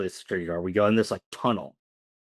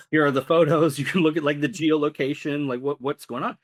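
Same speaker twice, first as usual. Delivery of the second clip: higher, urgent self-defence; acted insistent pleading; 6 semitones higher than usual. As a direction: plead your case in a raised pitch. Insistently showing police his proof.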